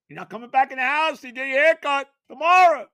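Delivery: high, loud mock scolding; mother's loud ultimatum. Mother laying down the haircut rule in a high mock shout. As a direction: bark it like a fed-up mom laying down the law.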